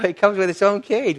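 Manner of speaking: tickled by his own image, laughing it out; amused repeat. Acted. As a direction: chuckle through the repeated punchline.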